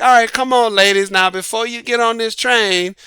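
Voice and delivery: a hint of a showy hostess at the door; Mother Nature as bouncer. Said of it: "And so Mother Nature, like".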